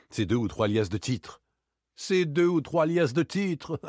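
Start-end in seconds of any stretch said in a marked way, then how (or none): 2.0-3.9 high, slow, scornful repetition; indignant echo. Acted. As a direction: repeat it back in outraged disbelief. Lupin indignantly repeats the words. (indigné, en détachant les mots)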